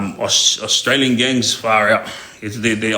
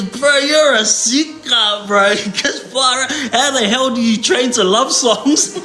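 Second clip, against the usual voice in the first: imitating the Tongan guy; 9 semitones higher, slower than usual. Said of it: "And he goes".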